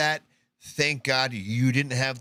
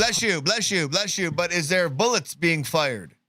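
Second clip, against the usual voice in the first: slightly mock-polite, higher-pitched bystander; lightly acted anxious politeness; 4 semitones higher than usual. Host as bystander blessing a sneezer during gunfire, lightly mock-polite. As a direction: lightly play a courteous man trying to get an answer.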